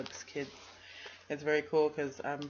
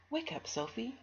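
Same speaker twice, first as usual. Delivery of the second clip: higher, gentle teacher coaxing; gentle wake-up; 8 semitones higher than usual. Acted. Teacher gently waking sleepy Sophie, coaxing. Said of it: "gently tickled her with a feather".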